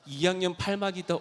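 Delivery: loud, high retold shout; retold yelling. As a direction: yell it out as you once did. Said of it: "엄청 많이 외쳤거든요".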